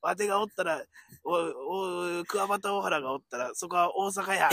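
a light Kansai accent, lightly imitated; mock Kansai dialect. Teasing his partner by imitating a Kansai guy in lightly put-on Kansai dialect. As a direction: tease it in a hint of Osaka dialect. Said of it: "よく関西人が東京来ても関西弁で喋って".

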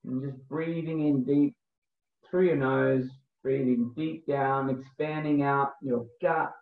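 slow, calm breathwork guide voice; guided meditation. Acted. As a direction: lead the breathing gently, unhurried.

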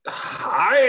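high, called-out hello; shouted greeting. Acted. Rorax comes in and greets sleeping friends, shouted greeting. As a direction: call out to the whole room. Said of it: "nu Rorax sådan råber sådan ud".

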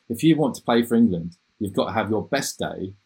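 half-hearted English accent impression; attempted English accent. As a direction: quote him in a mild English accent. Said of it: "I'll try to use my best English accent".

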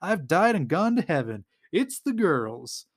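imitating a delighted exclamation, high then slowing; mock-ecstatic, drawing out the last line; super excited. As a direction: playfully act out giddy disbelief at good luck. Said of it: "is super excited".

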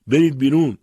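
loud, high shouted order; furious command at full volume; roaring. A narrator's reading. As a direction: roar it like an enraged master. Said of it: "و ارباب خروشید".

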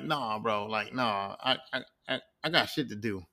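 low, soft, offhand brush-off; low-key refusal. Retold or imitated. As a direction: wave it away under your breath, acted. Loki's dismissive retort, acted.

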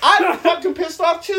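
high, loud comic rant; hammed-up indignation. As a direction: blow up in mock outrage. Hammed-up rant about the desk quarrel.

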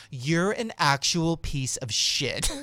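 slow, loud mimicked insult; retold angry insult. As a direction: draw it out in mock fury.

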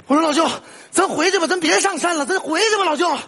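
pleading. Acted. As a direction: plead with your uncle to turn back. Nephew begs uncle to turn back.

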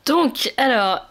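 cracking, unsteady voice. Real, not acted. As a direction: voice breaking on the words. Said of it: "j'ai encore la voix qui part en vrille".

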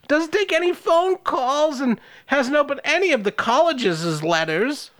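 melodramatic grandma. Acted. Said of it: "Scenery sufficiently chewed".

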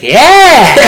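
high, loud whoop; hammed-up thrill-seeker shout; mock exhilarated yell. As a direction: whoop like an oblivious show-off. Mocking Peter swinging a terrified MJ.

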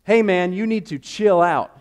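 loud, high frantic yelling; panicked shout. Retold or imitated. Passenger yelling at his swerving friend, loud and high in panic. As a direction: shout at him to stop before you crash. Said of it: "And I'm like".

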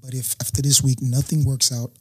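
an ultimatum prayed quietly under his breath; hushed prayer. Retold or imitated. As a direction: murmur it like a last prayer.

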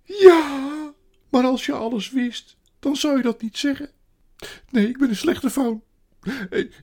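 high, loud self-reproach; woeful creature crying out; tearful wailing faun. A narrator's reading. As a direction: bewail your own wickedness. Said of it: "de faun bleef hartverscheurend snikken".

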